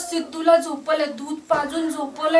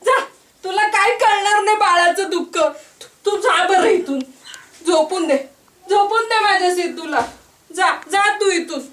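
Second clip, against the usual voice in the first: tearful dismissal. Acted. Mother sends friend away crying.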